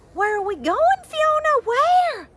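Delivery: put-on high, loud breathless child's question; asked out of breath while running; mildly panting high cry. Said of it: "Eilish panted".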